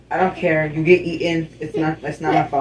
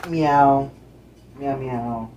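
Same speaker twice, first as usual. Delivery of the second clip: playful cat meowing; cat meows; 2 semitones lower, much slower than usual. Pretend. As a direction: meow at the cat.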